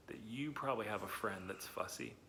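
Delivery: soft confiding whisper; whispered aside. Pretend. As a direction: let the kids in on a secret, whispering. Confiding guess to the kids.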